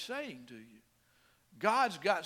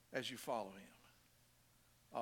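much softer, lower and slower; hushed repeat; 7 semitones lower, 12 dB quieter, much slower than usual. Real, not acted. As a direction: let the phrase sink in, slow and quiet. Softly repeats the phrase for emphasis.

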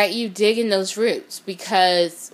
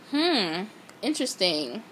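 dry sarcasm; 7 dB quieter, slower than usual. Real, not acted. Sarcastic aside after the fake friends.

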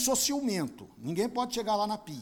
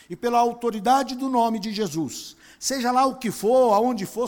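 earnest spoken prayer to God; 4 dB louder than usual. Retold or imitated. Pastor retelling his prayer for the pain to stop, earnest. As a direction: plead with the Father, intimate then firm.

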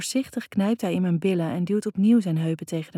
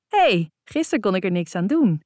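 louder, whiny protest; complaining; 5 dB louder than usual. A narrator's reading. She protests to Lucas about yesterday, louder whiny complaint. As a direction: plead your innocence, half complaining. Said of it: "klaag ik".

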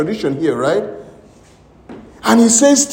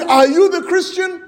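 higher, urgent asking; eager question; 9 semitones higher than usual. Retold or imitated. A healed woman asking the preacher eagerly in his office. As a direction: ask it breathless with hope.

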